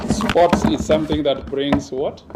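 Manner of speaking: loud rising question thrown to the audience; calling on the crowd. Real, not acted. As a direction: fire it at the crowd and wait for them to answer. Prompting the audience to answer.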